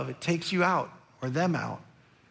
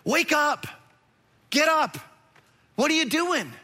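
raised, higher voice rousing a sleeper; urgent wake-up call; 6 semitones higher than usual. Acted. Sailor shouting at sleeping Jonah, urgent and raised. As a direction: shake him awake with your voice.

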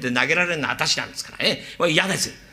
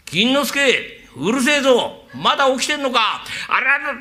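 father; 8 semitones higher than usual. Acted. Father scolds from bed.

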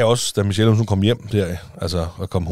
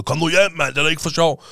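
higher mock panic yell; husband imitating his own panicked phone shout, higher; retold panicked yell; 9 semitones higher than usual. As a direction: yell it like you're begging her home. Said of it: "jeg panikker bare og bare råber".

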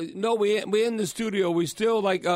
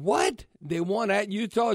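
mock surprise; 3 semitones higher than usual. Host reacting to the Utah win, acting astonished. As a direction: pitch leaping on the first word.

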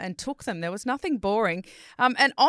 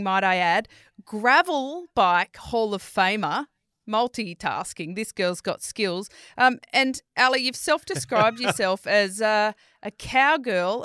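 announcer intro; 3 dB louder than usual. Acted. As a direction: build up the guest like a host. Hyped guest introduction.

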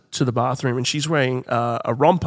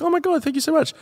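put-on much higher, gushing girly thanks; 13 semitones higher, faster than usual. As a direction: thank her like an overjoyed young woman. Mia voiced thanking stranger.

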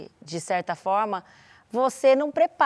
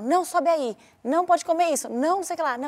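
higher, repeated snapping no's; nagging mom; 5 semitones higher than usual. Retold or imitated. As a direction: mom saying no over and over. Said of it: "Eu falava". (mãe dizendo não sem parar)

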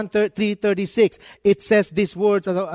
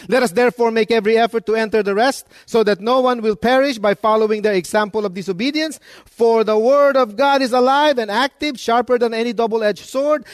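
louder, higher, fast preaching read; forceful scripture reading; 5 semitones higher, 4 dB louder than usual. Acted. Pastor reads the verse to the congregation, louder and higher.

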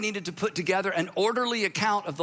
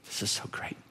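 whispered aside; 8 dB quieter than usual. Real, not acted. Preacher's delighted aside.

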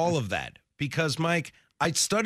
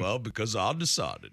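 lightly Texan reply, "I" as "Ah"; mock Texas accent; 4 semitones lower than usual. Host justifying invented origin, mock Texas accent. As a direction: keep the teasing Texas twang going. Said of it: "from Texas all of a sudden".

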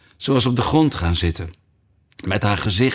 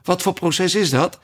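panting; 8 semitones higher than usual. A narrator's reading. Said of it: "hijgde Alice onder het hollen".

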